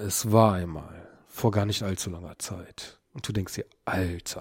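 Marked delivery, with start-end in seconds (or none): 0.0-3.0 deep, slightly smoky narrator voice, slower. Imagining a storyteller opening a thick book, in a deep, slightly smoky narrator voice. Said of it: "du hast dann was tiefes, was leicht rauchiges".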